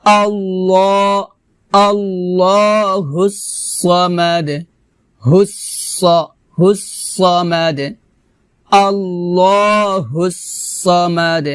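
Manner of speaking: slow, drawn-out recitation; Quran recitation. Shown as a demonstration. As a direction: recite the verse slowly with long held vowels. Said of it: "আবার".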